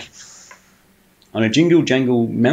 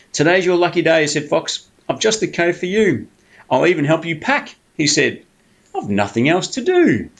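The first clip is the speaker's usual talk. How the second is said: higher, eager crafty fox; sly fox voice; 6 semitones higher than usual. Acted. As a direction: sell it like a sneaky fox. Fox character persuading bear.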